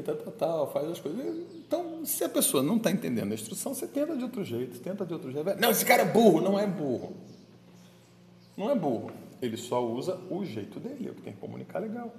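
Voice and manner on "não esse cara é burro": mock scornful. Mock judgmental thought quoted.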